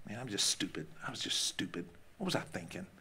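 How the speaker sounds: low, soft self-blame, as if to oneself; self-reproach. Acted. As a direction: voice drops low and quiet in mock self-criticism. Muttered self-blame acted out.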